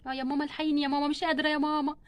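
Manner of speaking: soft, weakened moaning plea; labour pain.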